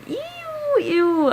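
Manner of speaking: disgusted. Real, not acted. Disgusted by steamy scene.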